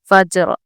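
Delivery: फज्र with a full, heavy र; heavy ra recitation. Shown as a demonstration. Teacher reciting the example word for the class. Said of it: "रॉ हम पुर पढ़ेंगे".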